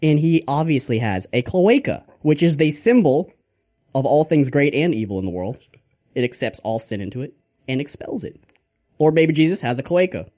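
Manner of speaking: lightly voiced mock preacher; Father Grandfather. Preacher correcting people on Lord Baby Jesus, lightly hammed-up. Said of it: "motivational speech on the Lord Baby Jesus by Father Grandfather".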